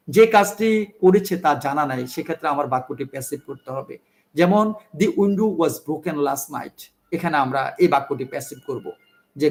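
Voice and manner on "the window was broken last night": slow dictation. Shown as a demonstration. Teacher dictates example sentence.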